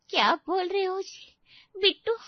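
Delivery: sudden high cry of shock. Acted. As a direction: gasp the name in disbelief. Wife shocked by news.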